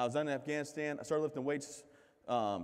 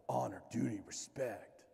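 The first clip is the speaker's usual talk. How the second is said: solemn recruiter; 2 semitones lower, 5 dB quieter, slower than usual. Retold or imitated. Marine recruiter's solemn creed.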